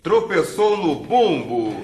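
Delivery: slow, deliberate, word by word; slow emphatic answer. Shown as a demonstration. Answering the question "what" in a drill, slow. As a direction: spell the answer out for the class. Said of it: "O quê?".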